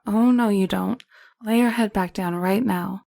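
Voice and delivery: sharp bedside order; firm order. Acted. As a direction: stop her rising, sharply. Stopping her getting up.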